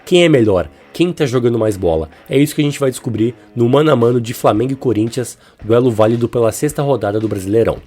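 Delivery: blocked nose and sore throat from a cold; stuffy nose voice. Real, not acted. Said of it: "esse meu nariz entupido, minha garganta inflamada".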